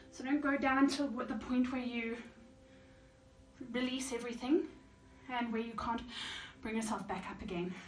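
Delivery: breathless from the squats; out of breath. Real, not acted. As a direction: talk while short of breath. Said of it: "even I'm out of breath now".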